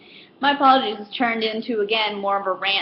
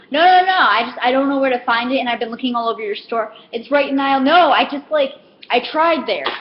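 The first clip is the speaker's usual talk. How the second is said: flustered customer; 3 semitones higher, 4 dB louder than usual. Retold or imitated. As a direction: play the helpless rambling shopper. Customer cutting her off.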